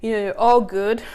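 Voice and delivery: short of breath while talking; winded, gulping air between phrases. Real, not acted. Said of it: "I need to catch my breath".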